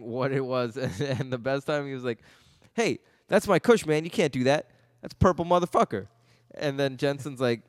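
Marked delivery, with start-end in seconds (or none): 2.7-6.1 mild mock yell as the bellboy; hammed-up angry stoner bellboy. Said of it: "He was always yelling at people".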